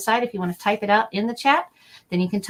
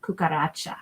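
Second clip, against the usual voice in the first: disgusted; 5 semitones lower, 4 dB quieter, slower than usual. Pretend. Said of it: "And I'm like".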